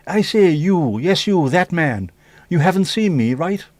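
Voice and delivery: high, swooping hailing voice; hammed-up catchphrase character. Streamer acting out catchphrases for the chat, hammed-up high voice. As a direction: call out high with big pitch swoops. Acted catchphrase, phrases without the accent.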